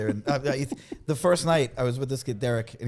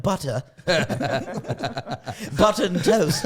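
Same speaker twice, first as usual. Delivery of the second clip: put-on Liverpool accent; slower than usual. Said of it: "he says things like".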